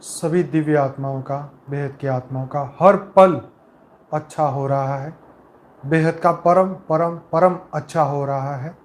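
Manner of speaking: calm, measured meditation voice with long pauses between phrases; guided meditation. Acted. Leader guiding souls with eyes closed into peace, calm meditative delivery.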